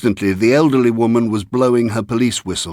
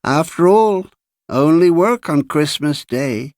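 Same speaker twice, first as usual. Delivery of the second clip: put-on high-pitched old man's remark; cracked-bell voice; 7 semitones higher than usual. A narrator's reading. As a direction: keep up the small, high, cracked voice. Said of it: "said Mister Honeyman".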